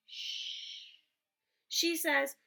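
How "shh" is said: a soft breathy shh; whispered shush. Acted. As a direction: hush her without a sound of voice. Shushing Lola in the library.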